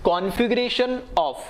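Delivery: very slow, deliberate definition read-out; measured teacher dictation, drawn out slowly. Real, not acted. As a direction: dictate it word by word for note-takers.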